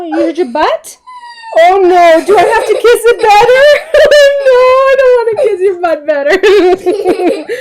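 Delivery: high, loud, laughing mock dismay; kissing it better. Real, not acted. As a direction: giggle through it with a playful squeal. Playful about kissing the hurt.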